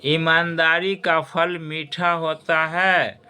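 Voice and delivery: ईमानदारी का फल मीठा होता है said slowly, each word weighed; slow moral emphasis. Shown as a demonstration. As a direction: teach the moral slowly to the students. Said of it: "बंधुओं और खास करके छात्र छात्राओं". (छात्रों को धीरे से सीख बताते हुए)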